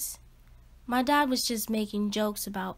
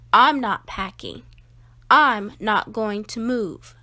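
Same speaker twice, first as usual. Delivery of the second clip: louder, firm and final; stubborn refusal; 3 semitones lower, 5 dB louder than usual. Acted. Boy tells parents he won't pack, louder and stubborn. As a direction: dig in and refuse.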